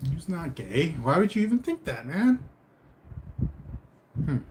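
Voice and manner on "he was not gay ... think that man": high-pitched incredulous protest; indignant disbelief. Real, not acted. Streamer defends a singer to a chat viewer, indignant disbelief. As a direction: push back in disbelief, pitch climbing.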